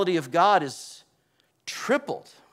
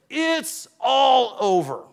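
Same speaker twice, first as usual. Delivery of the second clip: slow, higher despairing line; Isaiah in dread; 6 semitones higher, 4 dB louder, slower than usual. Retold or imitated. Preacher voicing Isaiah before God, slow and dread-filled. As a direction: say it like all is lost. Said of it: "Then Isaiah said".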